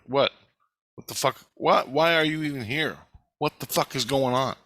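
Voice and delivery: a touch of furious disbelief; retold angry rant. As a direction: replay the outburst with a bit of heat, not full force. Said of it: "that's the way I was to her".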